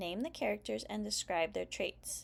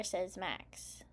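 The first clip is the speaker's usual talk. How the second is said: put-on lively read-aloud for young kids; story narration. A narrator's reading. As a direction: read it like story time for preschoolers. Reads picture book aloud.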